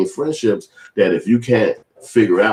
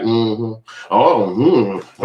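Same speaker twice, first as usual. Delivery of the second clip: mock unconscious mm-hmm grunts; imitated grunts; much slower than usual. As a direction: hum and grunt absent-mindedly, imitating her. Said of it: "you making sounds".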